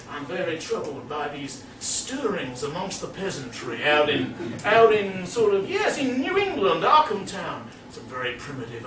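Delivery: a lightly voiced worried old academic; fussy professor. The Miskatonic professor confiding his fears, lightly voiced and fretful. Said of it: "he was saying".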